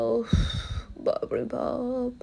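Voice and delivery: slow, pained, lips on fire; gasping through burning chili lips; mouth burning from spicy food. Real, not acted. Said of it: "এত জ্বালা করছে".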